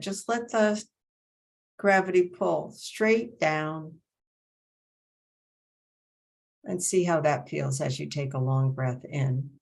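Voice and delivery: measured breathing cues, long silences between phrases; guided meditation. Acted. Teacher guiding breath along the spine, measured meditation voice.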